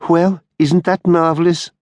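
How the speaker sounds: high, mock-delighted exclamation; exclaiming. A narrator's reading. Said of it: "exclaimed Halliwell".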